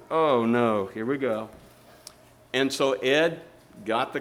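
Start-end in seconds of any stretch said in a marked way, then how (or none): 0.1-1.5 low, resigned groan of words; resigned dread. Retold or imitated. Passenger seeing the coffee cart stop, resigned dread. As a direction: sink into mild retold dread.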